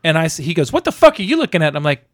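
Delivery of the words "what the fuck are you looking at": high-pitched imitation of an angry passerby; upset challenge. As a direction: mimic a stranger spoiling for a fight. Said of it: "significantly upset".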